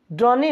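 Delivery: ड्रॉनी with an extra ee at the end; wrong pronunciation. Shown as a demonstration. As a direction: say ड्रॉनी wrongly, voicing the final e. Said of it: "ड्रॉनी नहीं".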